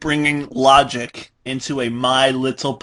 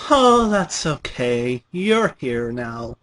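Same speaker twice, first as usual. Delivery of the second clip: gleefully reassuring; slower than usual. Acted. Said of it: "in a gleefully reassuring tone".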